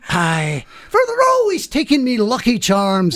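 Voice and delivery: mock Irish leprechaun accent. Husband botches Jamie for his wife, Irish leprechaun accent. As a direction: slip into a cartoon Irish accent. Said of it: "now you're doing leprechaun".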